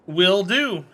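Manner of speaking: ordinary talk, nothing marked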